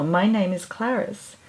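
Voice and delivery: lightly voiced beaming mouse. Mouse introduces herself to the bird, lightly voiced and beaming. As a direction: introduce yourself with a bright mouse smile. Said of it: "The mouse beamed back".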